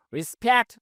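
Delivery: very slow, word by word; spaced-out classroom read; slow model reading. Shown as a demonstration. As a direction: dictate each English word slowly for learners. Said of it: "উচ্চারণটা খেয়াল করুন".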